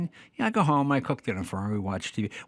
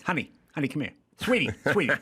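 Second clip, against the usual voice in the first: Jack Lord calling; 2 semitones higher, faster than usual. Retold or imitated. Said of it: "He just talks like this".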